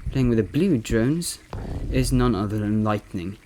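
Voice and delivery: lightly imitated esports caster; Loco impression. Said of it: "I'm gonna be impersonating Loco".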